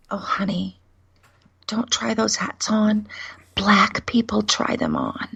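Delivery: put-on hushed, partly whispered warning to a child; retold whisper. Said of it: "she whispers at me".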